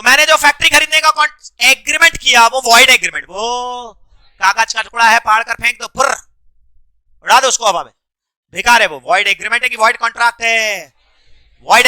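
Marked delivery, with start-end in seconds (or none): 5.9-6.2 imitated flutter noise. Shown as a demonstration. Imitates torn paper flying off.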